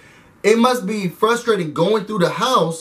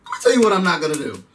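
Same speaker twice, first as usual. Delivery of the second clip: stern lecture; 5 semitones higher than usual. Retold or imitated. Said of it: "he said".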